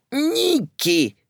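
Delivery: high calling shout from the hall. Acted. Visitor shouts from the hallway, high call. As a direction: call out to him. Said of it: "закричал из прихожей".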